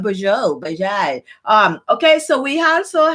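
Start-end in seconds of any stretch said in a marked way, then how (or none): 0.0-0.6 French bonjour with a nasal first vowel, falling; French greeting. Shown as a demonstration. Greeting viewers in French, a French-accented bonjour. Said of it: "I'm speaking French now". 0.6-1.2 French bonjour repeated lower and softer, falling; lower French greeting. Shown as a demonstration. Greeting viewers again in French, a lower French-accented bonjour. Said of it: "I'm speaking French now".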